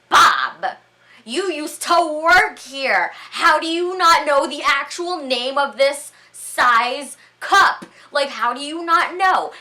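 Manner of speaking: loud, high, drawn-out mock indignation; hammed-up scolding of a friend; joking mock outrage. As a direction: shout it in playful disbelief, stretching the words. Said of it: "I'm using my joking voice".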